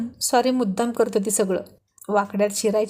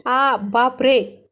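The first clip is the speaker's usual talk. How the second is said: louder, slow cry of "ouch, oh my"; drawn-out pained exclamation; 4 dB louder, much slower than usual. A narrator's reading. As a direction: react to a sudden scratch, stretching it out. Hurt by her nails. (दुखून लांबवलेला उद्गार)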